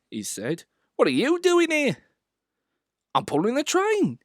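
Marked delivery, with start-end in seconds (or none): 1.0-2.0 signalman. A narrator's reading. Signalman questions Thomas. 3.1-4.2 proud. A narrator's reading. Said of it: "said Thomas proudly".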